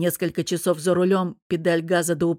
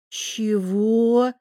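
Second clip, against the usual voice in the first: drawn-out confusion; 4 semitones higher than usual. A narrator's reading. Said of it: "растерянно протянул я".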